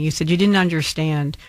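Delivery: ordinary delivery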